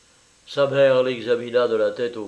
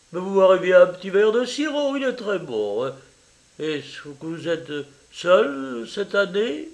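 higher, effusive Italian mother welcoming a guest; eager landlady mother; 7 semitones higher, 3 dB louder than usual. Acted. Mother welcoming her daughter's French lover, eager and high. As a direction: gush over the visitor, pitched up.

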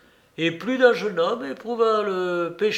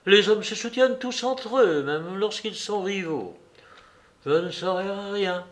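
higher-pitched, mildly vexed woman's retort; agitated, jerky; 5 semitones higher than usual. Acted. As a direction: toss it out in mild agitation. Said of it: "reprit la comtesse d'un accent saccadé". (d'un accent saccadé, un peu agacé)

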